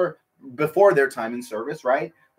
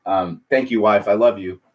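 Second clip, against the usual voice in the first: lower-pitched, affectionate thanks; tender aside; 8 semitones lower than usual. Real, not acted. Husband thanking his wife for homemade scones, tender aside. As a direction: drop your pitch for a fond aside.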